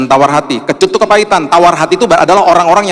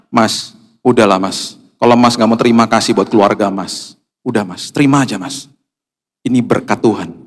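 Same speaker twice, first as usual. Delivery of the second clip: gentle persuasion; 4 semitones lower than usual. Retold or imitated. (membujuk kurir dengan lembut dan pelan)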